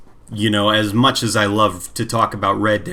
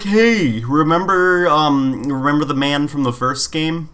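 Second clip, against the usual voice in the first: higher, sing-song mock reminder; mock nostalgic game pitch; 3 semitones higher than usual. Friend mocking the game's plot, sing-song higher voice. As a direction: tease the sequel's cheesy callback.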